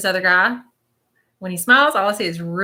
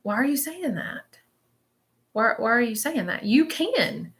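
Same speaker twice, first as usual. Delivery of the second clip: gentle scolding; 3 semitones higher than usual. Retold or imitated. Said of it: "he's not getting on to you, but he kinda is".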